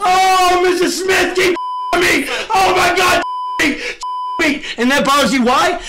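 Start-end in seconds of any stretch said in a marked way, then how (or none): 0.0-4.6 hammed-up pleading wail, higher; mock begging. Streamer mocking rival's pleas, hammed-up high whine. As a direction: whine like he's begging for mercy.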